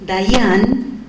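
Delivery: Dayan said with a rising tune, second syllable stressed. Shown as a demonstration. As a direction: say Dayan slowly, lifting toward the accented syllable. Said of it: "Y si digo".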